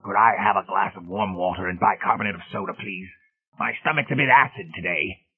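put-on lightly strained old man's voice; elderly invalid's polite request; frail old man.

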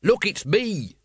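high, insistent yell. A narrator's reading. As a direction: call up urgently to be recognised. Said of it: "Vimes yelled".

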